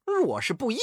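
换了嗓子的尖高怒吼，一句比一句响; 指着巨灵神破口大骂. A narrator's reading. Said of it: "美猴王大怒道". (猴王对巨灵神尖声怒骂叫阵)

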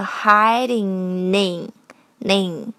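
"hiding in" joined as hidin-nin; drawn-out linked "hiding in"; linking. Shown as a demonstration. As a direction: slowly carry the n of "hiding" into "in". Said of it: "Hiding和in连读成".

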